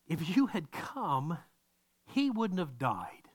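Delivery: slow, heavy reproach; Martha's attitude. Retold or imitated. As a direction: lay each word down slowly as a charge. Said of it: "she's got this attitude".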